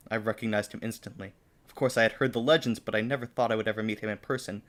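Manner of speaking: measured fan-fiction reading; story narration. Acted. Reading own fan fiction to co-host, story narration. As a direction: read it out like an earnest story.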